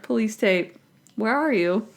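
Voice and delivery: imitating casual unconcern; offhand, understated retelling; nonchalant. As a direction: toss it off like no big deal. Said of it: "acts like it's no big deal".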